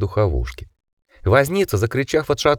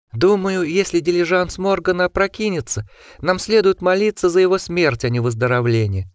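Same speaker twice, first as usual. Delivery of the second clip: shrill grim voice; 8 semitones higher than usual. A narrator's reading. Osmond's grim verdict.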